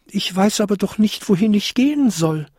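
high, helpless goblin voice; small high-pitched creature, at a loss; little goblin crying out. A narrator's reading. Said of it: "rief der kleinste Winterkobold".

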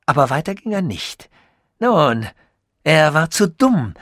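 lightly voiced, pleased with his own genius; proud scientist voice. Sasul boasts to Tichy, lightly voiced proud inventor.

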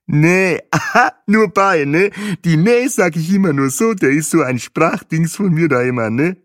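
high, loud, exuberant guide voice; überschwänglicher Tourguide. Acted. Tourguide erklärt seinen Namen. (fröhlicher Reiseleiter, hoch und laut)

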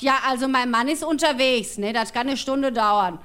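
lightly voiced, slow phone answer; slow, slightly put-on woman's voice; unhurried tradesman's wife. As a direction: draw the words out, in no hurry.

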